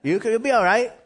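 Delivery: high, insistent retold pep talk; urging encouragement. Urging the rookie to catch and throw, high and insistent. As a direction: imitate someone eagerly coaxing a nervous player.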